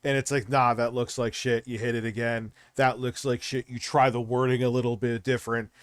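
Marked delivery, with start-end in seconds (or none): none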